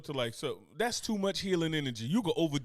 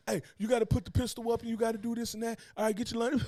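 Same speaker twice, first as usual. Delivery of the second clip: bossy instructor; 6 semitones higher than usual. Retold or imitated. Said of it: "teaching somebody something".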